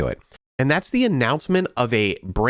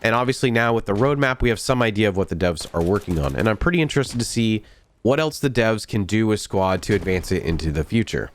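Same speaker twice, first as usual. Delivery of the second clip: stuffy nasal voice from a head cold. Real, not acted. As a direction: talk through a blocked nose. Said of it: "in my nasally voice as I'm getting over a head cold".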